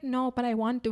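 softly imitated small boy; shy little kid. Little boy admitting to stranger, soft and shy. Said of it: "such a small little boy".

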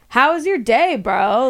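mock bro voice to a kid; cool dude voice. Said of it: "being like".

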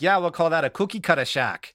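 lightly imitated Australian accent. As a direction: quote them with a hint of Australian. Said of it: "And, and Australians were like".

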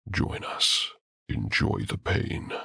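slow, low and flat, no rise or fall; low monotone voice. A narrator's reading. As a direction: chant it lifelessly, in unison. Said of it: "they said in a low, monotone voice".

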